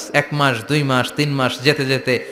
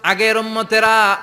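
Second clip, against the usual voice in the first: retold tearful plea; 4 dB quieter than usual. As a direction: imitate a sorrowful prayer, growing hushed. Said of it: "বিশ্বনবী আবার কাঁদলেন".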